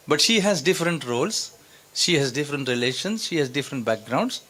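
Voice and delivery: very slow, each phrase rising on she; slow teaching emphasis. Shown as a demonstration. Teacher to students, explaining a woman's roles, very slowly. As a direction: lay it out word by word for the class.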